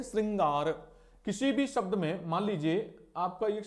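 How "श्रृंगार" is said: "श्रृंगार" with "ri", as "sringaar"; correct pronunciation repeated. Shown as a demonstration. Teacher answers own question, "श्रृंगार" as "sringaar". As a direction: say "श्रृंगार" with ri and a long final aar. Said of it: "क्या बोलते हैं?".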